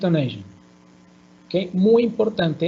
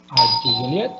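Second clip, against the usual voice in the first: "Are you Juliet?" climbing steeply on "Juliet"; yes-no question, upward glide on "Juliet"; rising intonation; 4 semitones lower, faster than usual. Shown as a demonstration. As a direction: lift the end of "Juliet" into a question.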